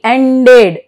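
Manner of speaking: "ended" in two syllables, full "ded" ending; pronounced E. Shown as a demonstration. Teacher shows E after D, "ended" with full E. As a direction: sound the E clearly in "ended", as en-ded. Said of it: "but here it is pronounced".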